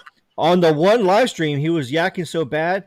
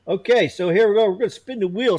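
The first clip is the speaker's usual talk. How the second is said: hyped giveaway announcement; 6 semitones higher than usual. Acted. Starting giveaway wheel spin.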